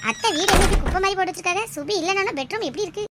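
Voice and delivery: loud, high-pitched dismay at a mess; appalled exclamation. Acted. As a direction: exclaim in shock at the untidy room. Appalled at aunt's messy house. (அதிர்ச்சியில் உரத்த, உயர்ந்த குரல்)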